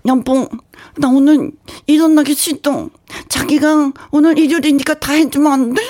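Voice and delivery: nasal aegyo voice. Shown as a demonstration. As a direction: push air through the nose, cutely. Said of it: "코에다 약간 바람을 좀 집어넣으면서".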